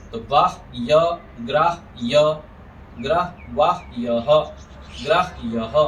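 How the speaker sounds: वाह य and ग्राह य split after the ह; pronunciation demo. Shown as a demonstration. Teacher shows how ग्राह य is spoken, careful demo. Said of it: "ऐसे बोलेंगे यहाँ पर".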